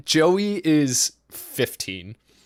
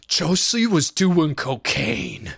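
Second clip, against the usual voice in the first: tattling; 2 semitones higher, slower than usual. Retold or imitated. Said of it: "I was like".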